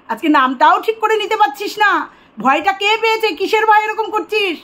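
ordinary delivery

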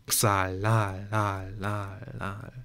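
soft fading echo; cave echo. A narrator's reading. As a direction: let it echo away into the cave. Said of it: "echote es in der Höhle". (leises, verhallendes Echo)

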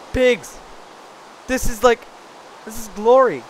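high, loud gleeful cry; delighted. Real, not acted. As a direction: cheer like you found a treasure. Spots pigs after mining.

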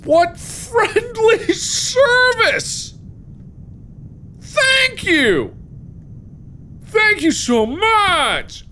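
high, slow laughing thanks; laughing sarcastically. Real, not acted.

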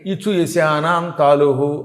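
very slow, deliberate Sanskrit chant; recited like a grammar teacher; sutra recitation. Shown as a demonstration. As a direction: spell out the rule syllable by syllable. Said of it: "తాళవ్యంతో పలకాలి".

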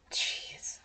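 unvoiced whispered jeez under the breath. Real, not acted. Player reacting to sims in a hushed whisper.

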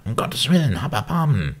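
high, loud cry for mercy; desperate plea. A narrator's reading. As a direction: beg loudly from behind a door. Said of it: "rief eine Stimme von innen". (lautes, verzweifeltes Flehen)

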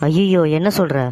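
startled, worried reaction; alarmed surprise. Acted. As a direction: react with alarm to bad news. Hears of layoffs from colleague. (அதிர்ச்சியுடன்)

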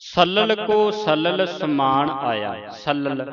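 slow ਸਲਲ, both l's sounded, sa-lal; two distinct l sounds. Shown as a demonstration. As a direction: articulate each l in ਸਲਲ carefully. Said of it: "ਇੱਥੇ ਦੋ ਲੱਲੇ ਨੇ".

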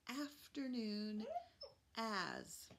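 Afternoon said slowly with the opening a drawn out; stretched first sound. Shown as a demonstration. Teacher stretching the a sound in Afternoon for kids. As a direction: draw out the a in Afternoon and as. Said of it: "What if I go like this".

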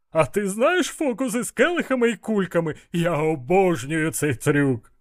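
high, delighted eagerness; perking up eagerly. A narrator's reading. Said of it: "аж ожив Іштван". (жваво, із захватом)

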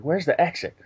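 "Where's the exit?" said softly with a slight laugh, imitating a dazed guy; mock soft, spaced-out murmur with a laugh in it; real soft. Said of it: "talking real soft".

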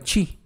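chi said as chee with a ch sound; Italian chi. Shown as a demonstration. Teacher shows how Italian C I sounds, as chi. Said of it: "si yo veo C I, voy a pronunciar".

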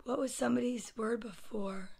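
hushed, voiceless aside; whispering. Real, not acted. Storyteller forgets what to do during breathing, whispering. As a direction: whisper softly to yourself.

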